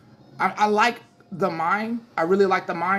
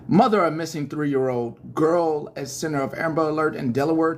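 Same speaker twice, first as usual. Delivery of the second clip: news read; 3 semitones lower than usual. Acted. Reads headline as newscaster.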